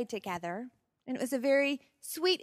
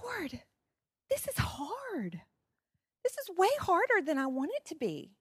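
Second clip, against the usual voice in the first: quiet sad prayer; 5 semitones higher, 4 dB quieter than usual. Retold or imitated. Prayer in sorrow.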